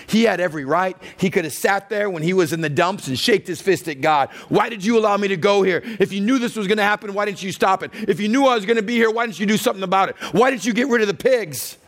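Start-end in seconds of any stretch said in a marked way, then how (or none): 4.5-11.8 angry accusing. Acted. Prodigal son shaking fist at God.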